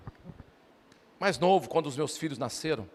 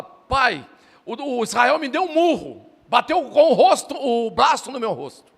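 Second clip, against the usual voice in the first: put-on high, loud child's wailing complaint; crying yell; 6 semitones higher, 9 dB louder, slower than usual. Little son yelling to dad about his brother, loud wail. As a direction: wail it out like a hurt little boy.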